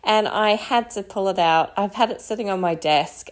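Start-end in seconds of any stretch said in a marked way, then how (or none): none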